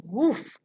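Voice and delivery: sudden loud woof; whoosh of breath. A narrator's reading. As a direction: blow out a punchy woof. Imitated sound of the blowing.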